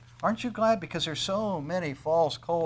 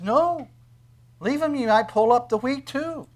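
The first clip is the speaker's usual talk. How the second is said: master's firm no; 10 semitones higher, 8 dB louder than usual. Retold or imitated. Master answers servants in parable.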